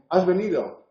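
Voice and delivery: has venido with a falling statement tune. Shown as a demonstration. Teacher showing the statement tune, falling. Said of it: "La entonación también tiene valor distintivo".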